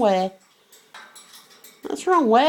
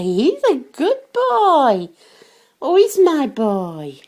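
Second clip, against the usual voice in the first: fond praise; slower than usual. Real, not acted. Praising the dog fondly.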